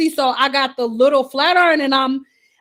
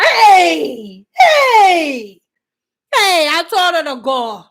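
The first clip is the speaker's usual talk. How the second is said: mock cry; 3 semitones higher, 5 dB louder, much slower than usual. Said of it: "And I was just like".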